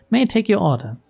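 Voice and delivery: bright smile. A narrator's reading. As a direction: politely pitch it up for a customer. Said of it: "with a bright smile".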